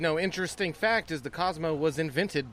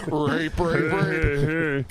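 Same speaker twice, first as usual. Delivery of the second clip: mock Swedish chef voice; much slower than usual. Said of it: "now you sound like the".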